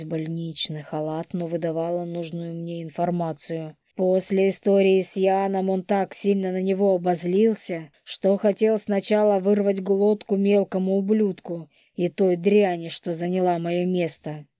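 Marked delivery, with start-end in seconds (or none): 4.0-14.5 put-on resentful young woman. Polina voiced by narrator.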